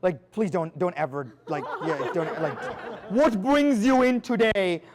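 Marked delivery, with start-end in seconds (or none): 3.1-4.8 slow, deliberate mock of the phrase; slow, scornful quote of a cliché; mocking repeat. Shown as a demonstration. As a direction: drag it out to show how bad it sounds. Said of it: "should be eliminated from your vocabulary".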